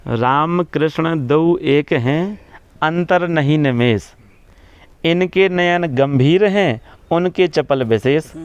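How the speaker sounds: slow, measured recitation of a couplet; quoting scripture in measured verse. Acted. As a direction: recite it slowly, drawing out each phrase.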